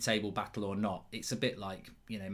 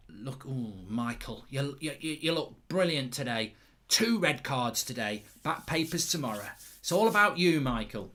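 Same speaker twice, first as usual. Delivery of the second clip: mock vain referee. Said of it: "He absolutely bloody loves himself".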